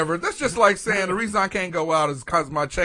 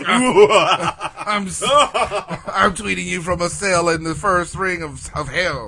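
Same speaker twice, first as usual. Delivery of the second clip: laughing villain taunt; 4 dB louder, slower than usual. Pretend. Voicing villain tweet, laughing.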